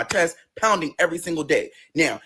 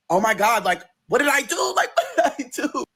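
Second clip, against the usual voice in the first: exasperated protest; 6 semitones higher than usual. Retold or imitated. Acted quarrel with boyfriend, exasperated.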